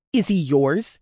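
loud grating goblin voice. A narrator's reading. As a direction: grate the words out. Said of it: "Red's voice grated".

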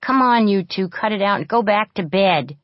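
loud firm order; commanding. A narrator's reading. Leader orders the fighting girls back to bed, loud and firm. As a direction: break it up, take charge. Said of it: "commanded Annie".

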